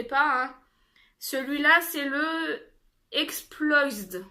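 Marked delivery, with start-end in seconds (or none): 3.1-4.3 "Exploised" tried with a light English accent. Real, not acted. Vlogger naming a lipstick shade to viewers, light English accent. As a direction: say the English name "Exploised" in an English accent, not a French one. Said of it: "Désolée pour mon accent anglais".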